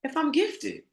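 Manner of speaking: high, loud, exasperated shouting; a loud, exasperated cry of why is it so hard; frustrated outcry. Retold or imitated. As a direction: vent the struggle to the heavens. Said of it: "y'all that have been wondering".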